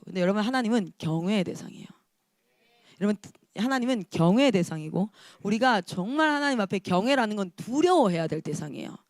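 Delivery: ordinary talk, nothing marked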